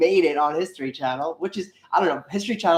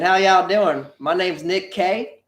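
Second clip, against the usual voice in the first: put-on Texas accent; 5 semitones higher, 5 dB louder than usual. Vlogger introducing himself in a mock Texas accent. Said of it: "speak with my Texas accent".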